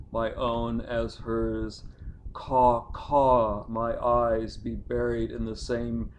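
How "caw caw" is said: crow cries. Pretend. Crow cry in a poem.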